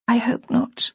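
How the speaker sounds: a tearful whisper, barely voiced. A narrator's reading. Tearful young wife whispering to Simmy about her husband. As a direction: whisper it through tears. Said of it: "whispered Bridget".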